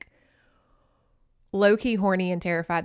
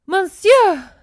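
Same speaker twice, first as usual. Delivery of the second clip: much louder, higher mock outrage; scandalized cry; 10 semitones higher, 11 dB louder than usual. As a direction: cry out like a shocked soap heroine. Telenovela maiden scandalized.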